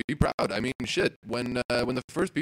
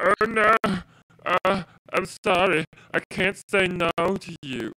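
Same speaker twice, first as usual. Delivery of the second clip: much higher, louder, overly apologetic; mock meek apology; 7 semitones higher, 4 dB louder than usual. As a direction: play a spineless pushover begging pardon. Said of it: "we started to be like".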